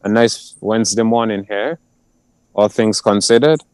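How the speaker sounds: muffled through a face mask. Real, not acted. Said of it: "If I sound a little muffled".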